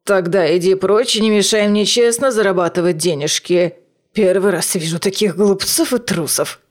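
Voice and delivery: spiteful hissed crone; through gritted teeth. Acted. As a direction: spit the words through clenched teeth. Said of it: "процедила сквозь железные зубы".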